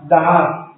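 Da'at with the accent on its first A; stress on first A. Shown as a demonstration. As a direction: say Da'at, leaning on the first of the double A. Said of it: "con acento en la primera A".

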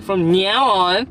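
mock their drawn-out NOW; mimicked pronunciation. Teasing partner over their pronunciation, mimicking it. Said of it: "You always say, like".

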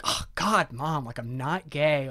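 mock teenage exasperation at mom; snooty high schooler. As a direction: play an indignant, snooty teen brushing off a parent. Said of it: "like, the snooty high schooler I am".

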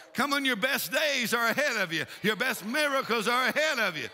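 insistent, driving revival preacher; fired-up preaching. Real, not acted. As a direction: urge the congregation on with conviction. Preaches to the congregation.

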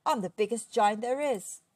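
loud, indignant giant's boast; affronted, forceful declaration; cross. A narrator's reading. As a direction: insist angrily on your size. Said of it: "said Angus crossly".

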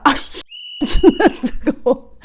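laughing yelp at hot bone; food too hot. Shown as a demonstration. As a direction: act burned by a hot bone. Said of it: "이러면서 먹는 거지".

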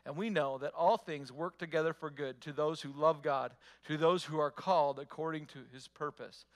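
slow it down, every word clear. Shown as a demonstration. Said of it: "let me read that a little slower".

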